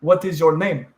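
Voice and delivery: imitated Peruvian learner of English; lightly put-on Peruvian accent in English. Host answering request for a foreign accent, mild Peruvian English accent. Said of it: "this is Peruvians doing English accents".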